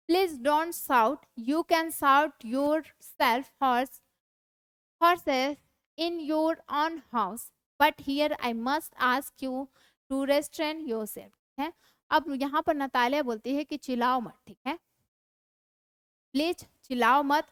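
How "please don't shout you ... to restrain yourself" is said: deliberate dramatic reading of a play; slow classroom read-aloud. Acted. Reads Natalia's lines aloud.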